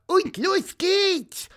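high, slow rallying bird call; squeaky. A narrator's reading. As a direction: chirp the start signal loudly. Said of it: "Dann piepste Pieper".

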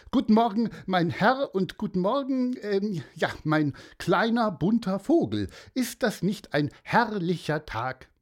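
hoch und laut ausgerufene Morgengrüße; fröhlicher Mann. Acted. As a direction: das Meer überschwänglich laut begrüßen. (Mann im Schlafanzug grüßt das Meer, hoch und laut)

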